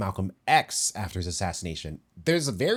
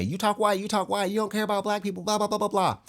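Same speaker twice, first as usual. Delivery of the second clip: high mocking voice of the people who judge him; high sneering imitation of critics; 12 semitones higher, faster than usual. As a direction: parody the critics, singsong and dismissive. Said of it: "People can easily say".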